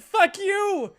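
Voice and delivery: sharp high mock curse; mock angry snap. Retelling a rude passenger cursing out the attendant, mock snap.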